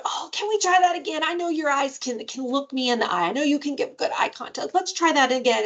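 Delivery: fun and playful. Shown as a demonstration. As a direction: playfully nudge a child to retry. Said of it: "making it fun and playful and going".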